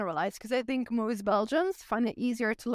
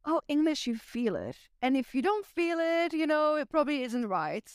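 lightly voiced teacher; 5 semitones higher than usual. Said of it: "they were like".

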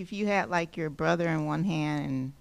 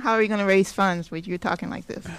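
laughing and a bit louder; laughing through the quote; 4 semitones higher, 6 dB louder than usual. Retold or imitated. Friend teasingly repeats his worry to the pastor, laughing. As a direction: push the worried question out through a laugh. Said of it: "I just thought".

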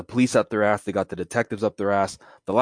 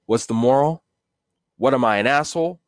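wiseguy retort; 4 semitones higher, 3 dB louder than usual. Acted. Catchphrase repeated.

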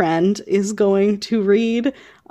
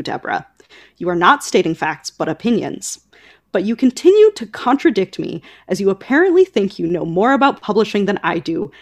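cool author reply. Retold or imitated. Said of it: "Nora's beautiful response is as follows".

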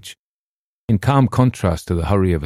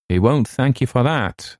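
sharp; 7 semitones higher than usual. A narrator's reading. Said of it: "I answered sharply".

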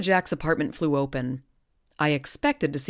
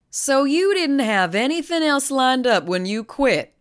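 slow, higher probing question; lightly voiced doubtful listener; curious questioner; 10 semitones higher, 5 dB louder than usual. Character voice in the story.

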